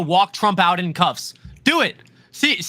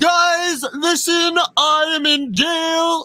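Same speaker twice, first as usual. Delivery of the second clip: dragged out very slowly and badly; 7 semitones higher than usual. Imitating Trump speaking to cameras from jail: bad Trump impression. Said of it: "bad, bad Trump impression".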